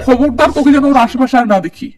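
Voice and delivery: angry father. Acted. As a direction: snap back at the word uncle with outrage. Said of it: "রেগে মেগে বিধির কাছে আসে".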